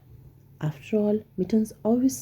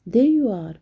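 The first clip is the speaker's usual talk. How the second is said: delighted; 3 semitones higher, 6 dB louder than usual. Acted. Old lady finds her cat.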